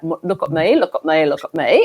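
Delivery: lightly imitated Aussie comedy catchphrase; a hint of mock comic attention-seeking, repeated insistently; Kath and Kim. Guest quoting an Australian comedy joke, lightly imitated catchphrase. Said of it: "Kath and Kim, like".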